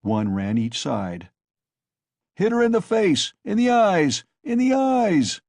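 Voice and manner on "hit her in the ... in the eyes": high, loud furious yelling; bay for the mare to be hit; cried out. A narrator's reading. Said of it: "cried Mikolka".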